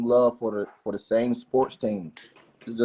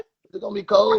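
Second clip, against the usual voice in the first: repeated higher and louder; faster than usual. Shown as a demonstration. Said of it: "What'd you say?".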